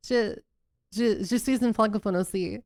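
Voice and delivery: French with a strong American accent. Shown as a demonstration. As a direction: speak French like an American learner. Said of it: "I'm French, by the way".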